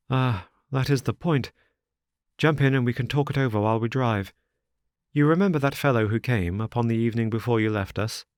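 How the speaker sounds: lightly voiced anxious son; a hint of a worried young friend; distressed young man.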